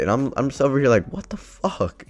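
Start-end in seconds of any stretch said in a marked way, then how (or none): 1.1-2.0 high, soft incredulous exclamation. Retold or imitated. Player reacting to uncaring rivals, incredulous. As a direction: squeak it out in hushed disbelief. Retells own disbelief at the team.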